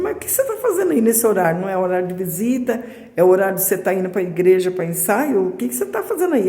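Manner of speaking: asking in disbelief why she is there at that hour; surprised questioning. Retold or imitated. Surprised to find sister at hospital.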